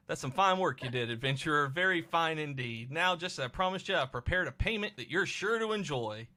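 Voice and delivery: lilting Cockney, rising as it goes; put-on Cockney accent. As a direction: praise like a Cockney trader. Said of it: "Changed him from Cockney to".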